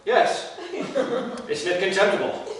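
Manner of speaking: soft, laughing admission; sheepish laugh. Acted. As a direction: laugh at yourself, embarrassed.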